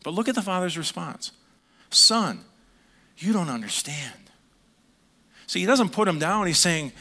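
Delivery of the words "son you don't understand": put-on a loving father reassuring his hurt boy; gentle fatherly plea; tender father. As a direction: call Son out, then soften on you don't understand. Father gently answers son.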